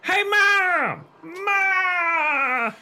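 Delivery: high calling shout; shouting for mom. A narrator's reading. Lindy running off calling for her mother, shouting. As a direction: call out down the stairs. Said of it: "Chris heard her shouting".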